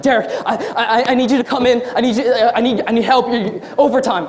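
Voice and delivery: mock-tearful stammering plea; imitating a frantic, weepy manager; crying. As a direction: stammer as if crying, begging for help. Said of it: "she's crying or something".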